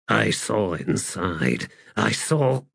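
slow, halting, distressed healer; near breakdown. Acted. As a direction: falter on the edge of sobs. Healer about to break down sobbing.

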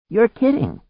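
very high exclamation; high-pitched cry of disbelief; disbelieving shout. A narrator's reading. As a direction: call it back incredulously. Disbelieving reply shouted over storm.

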